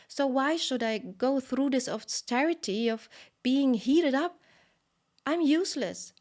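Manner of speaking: a pot of milk wailing that it is useless; despairing milk. A narrator's reading. Milk on the stove despairs it cannot serve Krishna, high wailing lament. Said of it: "the milk on the stove was thinking".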